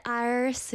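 "Iris" squashed to one syllable, like "airs" with an "eye" start; mispronounced name. Real, not acted. Streamer catching her slip, "Iris" squashed on the r. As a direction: run "Iris" together on the r. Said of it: "Why do I keep saying".

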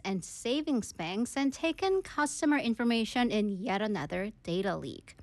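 measured, slow newsreader delivery; news read. Acted. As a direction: read it as a radio news bulletin, slow and clear. Reads the news story in English.

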